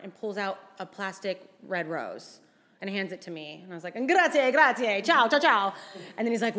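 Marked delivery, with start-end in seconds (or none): 4.0-5.7 nervous polite thanks. Retold or imitated. Accepting rose, trying to leave.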